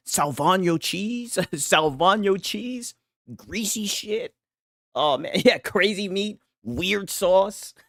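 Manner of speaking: high laughing mock quote; laughing while quoting. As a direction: quote it through laughter, mocking. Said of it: "That nigga said".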